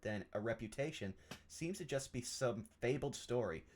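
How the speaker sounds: measured, formal reading of a letter; deliberate, literary narration; journal read aloud. Acted. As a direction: read it out like a scholar's musings. Reads a journal entry aloud in character.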